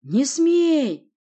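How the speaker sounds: high, loud, frantic shout; desperate forbidding cry; frantic yell. Acted. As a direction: yell it wildly to stop him. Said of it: "заорал я неистово".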